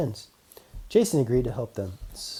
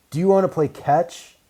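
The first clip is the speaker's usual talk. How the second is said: shy ask; 6 semitones higher, 7 dB louder than usual. Acted. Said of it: "he asked shyly".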